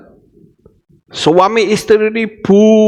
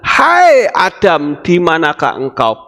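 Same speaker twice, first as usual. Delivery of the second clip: God calling. Acted. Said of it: "Pertanyaan ini ditanyakan kepada kita".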